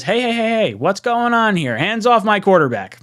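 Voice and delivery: hammed-up indignant fan voice; mock outraged fan. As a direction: play the indignant fan shouting hey. Reading a fan's mock protest.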